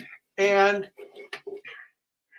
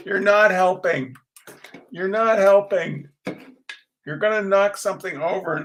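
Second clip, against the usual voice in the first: exasperated scolding; 2 semitones higher, 5 dB louder than usual. Real, not acted. Telling Sharbo off for getting in the way, exasperated.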